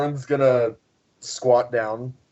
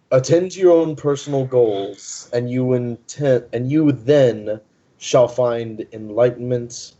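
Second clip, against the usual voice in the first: earnest sage. Acted. Morin advises a muddy child, overdone solemn wisdom. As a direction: hand down wisdom, laboring each phrase. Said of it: "you're trying way too hard on this".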